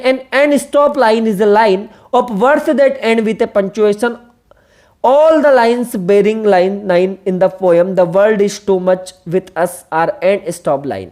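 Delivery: very slow, deliberate reading of an English definition; teacher dictating a definition; reading aloud. Shown as a demonstration. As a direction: read each word out slowly for the class. Reads quoted definition aloud.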